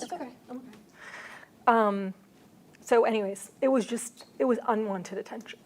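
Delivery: steady voice with shaky moments. Real, not acted. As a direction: voice trembling, pushing through. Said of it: "are you sure you don't wanna take a break".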